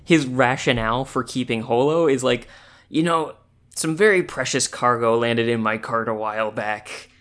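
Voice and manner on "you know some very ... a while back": put-on lightly gruff old trader voice; a hint of a weathered merchant; grizzled merchant. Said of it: "You make him sound so grizzled".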